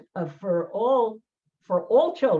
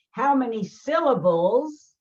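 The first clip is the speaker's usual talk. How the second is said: slow quizzing question; 4 semitones higher, 5 dB louder, slower than usual. Retold or imitated. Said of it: "he has to come home and he say".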